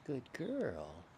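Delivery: soft unvoiced whisper. Real, not acted. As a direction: whisper so the dog stays calm. Whispering near the dog.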